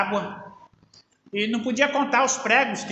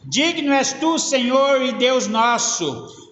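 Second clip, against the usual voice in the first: proclaimed; 3 semitones higher, 5 dB louder, slower than usual. Shown as a demonstration. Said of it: "Como é que é que eles falaram aqui?".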